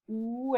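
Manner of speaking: "U" with lips pouted as if to kiss; exaggerated pouted U. Shown as a demonstration. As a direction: push the lips right out for a drawn "U". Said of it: "This is how you have to place your lips".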